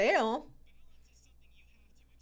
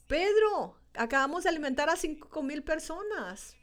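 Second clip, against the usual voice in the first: gentle reassurance; 4 semitones higher than usual. Retold or imitated. Jesus reassuring Peter after he sinks, gently. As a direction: comfort Peter like a caring friend. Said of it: "Yo no creo que haya sido así".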